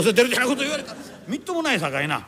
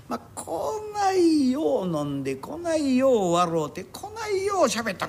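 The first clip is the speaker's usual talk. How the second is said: tearful; 4 semitones higher, slower than usual. Acted. Drunk patron reminiscing emotionally.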